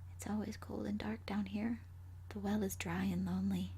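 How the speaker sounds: soft eerie whisper. A narrator's reading. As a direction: whisper the refrain like a ghost. Ghost refrain repeated.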